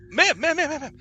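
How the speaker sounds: high, loud call of ma'am after her. Acted. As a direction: call her back urgently. Guards calling after her.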